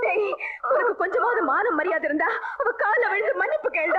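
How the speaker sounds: bitter, crying rebuke to her son; tearful scolding. Acted. Mother ordering her son to beg forgiveness, tearful. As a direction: scold him through tears.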